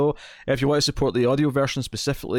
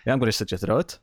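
a hint of friendly New Zealand accent on a killer's line. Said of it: "I can do the accent".

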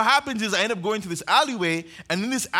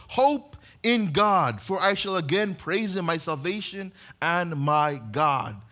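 slow resolve; slower than usual. Retold or imitated. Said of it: "Then he goes".

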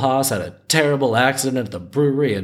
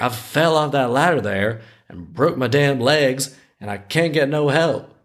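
lightly hammed-up Southern old-timer; terrible Southern accent; 3 semitones higher than usual. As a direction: play the injured old Southerner. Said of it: "I got to do a terrible Southern accent".

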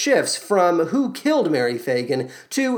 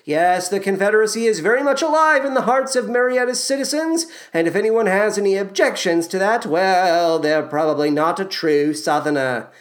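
put-on Southern accent; 3 semitones higher than usual. Podcaster jokingly putting on a Southern accent. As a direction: lay on a light Southern accent for the joke. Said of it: "That's my Southern accent".

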